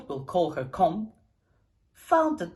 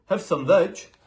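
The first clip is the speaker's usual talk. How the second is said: hooting; 8 dB louder than usual. A narrator's reading. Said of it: "And they hooted".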